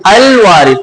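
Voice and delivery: "الوارث" with a clearly sounded L in "ال"; lam pronounced. Shown as a demonstration. Teacher shows students where lam is sounded, lam pronounced in "الوارث". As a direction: sound the L fully at the start of "الوارث". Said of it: "لام کی آواز نکالتے ہیں".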